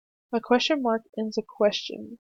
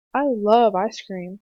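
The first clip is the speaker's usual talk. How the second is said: slow and louder, full of delight; excited exclamation; 6 dB louder, slower than usual. Shown as a demonstration. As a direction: read it like you can't wait for ice cream. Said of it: "use an exclamation point when you are excited".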